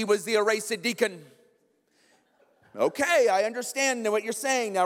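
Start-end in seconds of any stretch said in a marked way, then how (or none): 2.7-4.8 lightly imitated college president; raised, emphatic mentor's voice; Doctor Haug. College president answers his students, lightly imitated and emphatic. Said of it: "he would say that".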